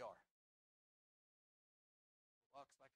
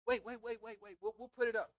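much higher, hurried calls to stop; urgent pleading; 8 semitones higher, 6 dB louder than usual. Acted. Friends at the barbecue begging him to stay, urgent mock plea. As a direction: plead with him not to leave.

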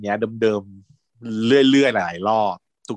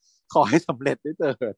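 praying; slower than usual. Retold or imitated. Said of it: "เขาก็ภาวนาว่า".

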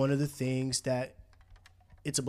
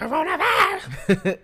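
laughing exclamation; 9 dB louder, slower than usual. Acted.

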